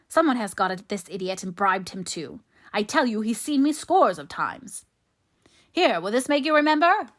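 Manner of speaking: loud, high, exasperated outburst; angry insistence. A narrator's reading. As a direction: protest loudly, then demand an answer. Favell rages at being contradicted.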